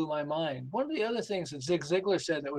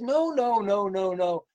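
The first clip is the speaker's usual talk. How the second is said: emphatic no; 2 semitones higher, 5 dB louder, slower than usual. Retold or imitated. Woman correcting him emphatically.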